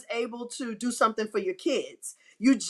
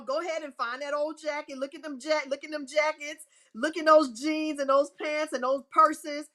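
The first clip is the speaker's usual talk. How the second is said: excited urging; 5 semitones higher than usual. Real, not acted. Urging listeners to check pockets.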